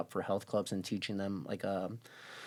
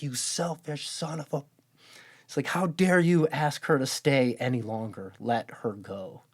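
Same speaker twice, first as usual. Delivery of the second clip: mock angry scolding, a bit louder and higher; retold yelling; 4 semitones higher, 4 dB louder than usual. Social worker scolding the family, imitated angry yell. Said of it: "Just, like, yelled at".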